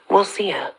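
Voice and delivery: HER set apart with a firm falling stress; emphasis on HER. A narrator's reading. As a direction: land pointedly on "her". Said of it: "Now it's my turn to emphasize the word her".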